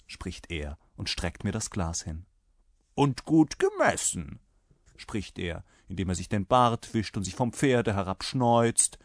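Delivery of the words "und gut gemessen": high-pitched soldier's order; demanding rider. A narrator's reading. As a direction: insist on a full measure. Rider orders a full measure. (fordernder Reiter, erhobene Stimme)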